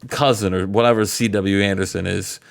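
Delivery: a hint of Booker T hyping up his crew; mock Booker T rallying the Gentlemen's Club. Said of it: "I'm Booker T saying this".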